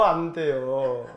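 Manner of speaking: low, soft and very slow; drawn-out quiet refusal. Shown as a demonstration. Preacher repeating the warning to the congregation, low and drawn out. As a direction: let 안 돼요 sink and trail long. 같은 답을 낮게 되풀이.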